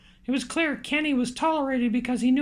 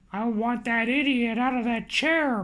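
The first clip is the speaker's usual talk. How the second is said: slow, lower mild bark; 3 semitones lower than usual. Acted. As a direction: lay the order down slowly, a touch gruff. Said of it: "barked Harper".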